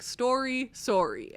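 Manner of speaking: put-on "Story" and "sorry" rhymed in a Canadian accent; Canadian rhyme. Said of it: "only works with a Canadian accent".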